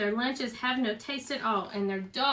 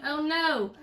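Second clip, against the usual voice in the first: moaning; 6 semitones higher than usual. A narrator's reading. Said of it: "we moaned".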